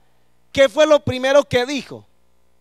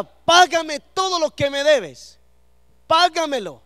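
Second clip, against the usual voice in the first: mock throttling demand; 4 semitones higher than usual. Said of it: "Le decía".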